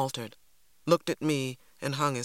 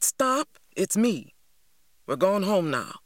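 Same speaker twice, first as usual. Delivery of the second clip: urgent higher call; 4 semitones higher than usual. A narrator's reading. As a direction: pull a frantic child back, urgent. Big Ma holding a struggling girl.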